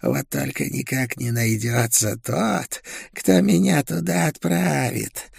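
high, slow, gloating creature voice; mocking witch. A narrator's reading. Okul mocks the prisoner's curse, high and gloating. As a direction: taunt slowly, rising high in scornful amusement. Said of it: "хохотнула она".

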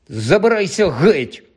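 вище, уривається терпець; прожени його, втративши терпець; роздратований вигук. Acted. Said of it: "У Рона урвався терпець". (роздратовано)

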